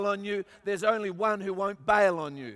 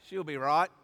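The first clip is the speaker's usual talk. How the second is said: low Australian aside; relaxed Australian catchphrase; 6 semitones lower than usual. Shown as a demonstration. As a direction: say it low and easy like an Aussie. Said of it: "That's a very Australian".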